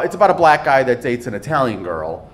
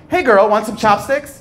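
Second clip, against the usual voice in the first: mock Chinese voice; 6 semitones higher than usual. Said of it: "my Chinese voice actually sounds really similar".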